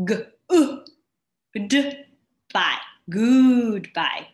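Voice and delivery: "g, u, d, by, goodbye" spelled loud and very slow; teacher drilling "goodbye" loudly and slowly; sounding out goodbye. Shown as a demonstration. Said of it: "We have short sound".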